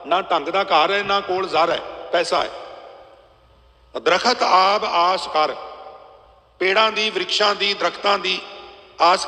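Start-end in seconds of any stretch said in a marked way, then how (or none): 4.0-5.5 very slow verse recital. Acted. Preacher reciting a verse about birds, very slow recital. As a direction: stretch every word of the verse.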